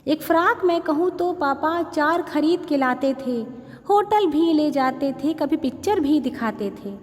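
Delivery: measured, sing-song poem reading with long pauses; poem recitation. Acted. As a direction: recite each line like a heartfelt verse.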